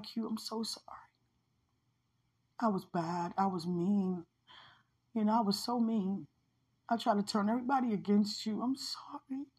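imitated soft, remorseful confession; remorseful apology. Person from the dream confessing meanness, retold soft remorse. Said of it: "that person felt so bad".

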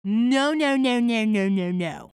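a run of loud, insistent no's; real, firm refusal; emphatic loud no. Real, not acted. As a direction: shut the idea down hard.

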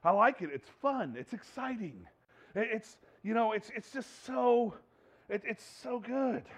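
slow, soft, savouring the sin; lightly voiced sinner relishing his choice; mock indulgence. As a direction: drawl it out like you love the sin. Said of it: "And yet we're going".

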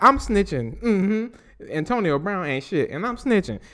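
gleefully snitching, laughing. Retold or imitated. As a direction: tattle with glee. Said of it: "He was like".

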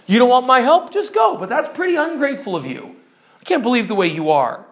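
heated, offended retort; angry. Acted. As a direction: dismiss her as ungrateful. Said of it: "He's angry at her".

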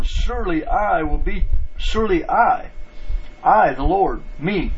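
"I" set apart and emphasised in God's promise; stress on I. Retold or imitated. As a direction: punch each "I", then land on "me". Preacher quotes God, stressing who acts.

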